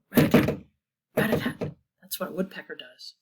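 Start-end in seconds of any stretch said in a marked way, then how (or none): 0.1-1.7 whispered knocking. Shown as a demonstration. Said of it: "Can you knock on the floor?".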